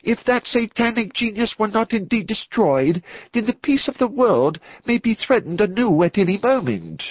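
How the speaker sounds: high-pitched, agitated clergyman; growing excited. A narrator's reading. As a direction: warn urgently, voice pitched right up. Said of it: "He was becoming excited".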